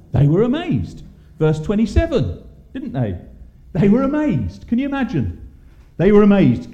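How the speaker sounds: preacher driving home the amazement to the congregation; building emphasis. Acted. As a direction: build the repeats toward a loud climax. Preacher repeats the phrase, building up.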